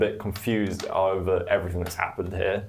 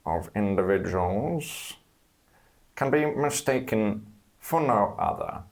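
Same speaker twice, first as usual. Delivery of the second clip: serpent voice. Acted. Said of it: "the serpent voice".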